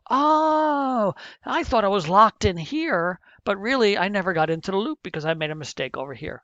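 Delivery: high, loud realizing student; relieved student. Retold or imitated. Teacher imitating a student realizing their mistake, starting high and loud. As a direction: start way up on oh, then settle. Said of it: "And now they go".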